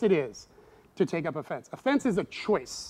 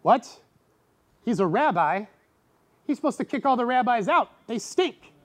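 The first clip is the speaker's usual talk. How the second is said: high, loud scandalized gasp of a question; shocked disbelief; 6 semitones higher, 4 dB louder than usual. Retold or imitated. Onlookers scandalized that Jesus eats with sinners, shocked. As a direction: act out the onlookers' outrage.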